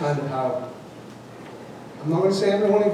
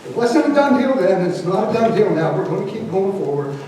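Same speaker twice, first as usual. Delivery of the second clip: defiant; 3 semitones higher, 4 dB louder than usual. Real, not acted. Defiant public comment.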